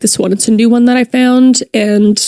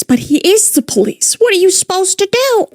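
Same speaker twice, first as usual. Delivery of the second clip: mock incredulous; 10 semitones higher than usual. Mock-reading officer's text.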